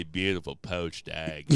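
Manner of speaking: low, slow practice British accent. Shown as a demonstration. Host showing his warm-up phrase, slow British accent. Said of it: "trying to get a good accent".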